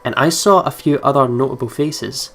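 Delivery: even, measured narrator read; story narration. Acted. Game player reading the narration text to viewers, in a calm narrator voice. Reads the game's narration aloud.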